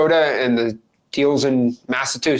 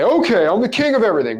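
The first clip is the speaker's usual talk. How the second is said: higher, quick mock guru boast; boastful guru; 5 semitones higher, faster than usual. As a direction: lightly send up a self-crowned guru. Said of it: "if I'm a wholesaling guru".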